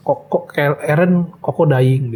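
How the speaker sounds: slow halting quote. Retold or imitated. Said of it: "Terus si Caleb ngomong".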